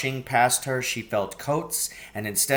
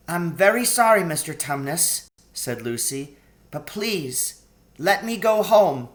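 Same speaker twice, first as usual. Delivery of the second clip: put-on higher, earnest pleading girl; 6 semitones higher, 3 dB louder than usual. A narrator's reading. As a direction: beg him not to, sweetly. Lucy asking to go home.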